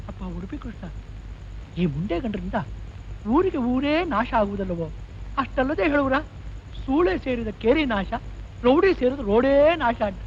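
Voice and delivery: muttered complaint under the breath; grumbling. Acted. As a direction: grumble softly to yourself. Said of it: "ಗೊಣಗ್ತಿದ್ದೀರಾ?".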